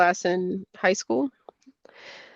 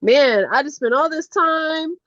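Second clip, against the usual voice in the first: 1 anxious worry; 6 semitones higher than usual. Retold or imitated. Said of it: "It's like".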